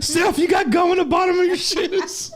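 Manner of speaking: high, playful imitation of a nagging dad; mock dad voice; teasing mock dad. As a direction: poke fun, pitched high. Imitating dad's line, high.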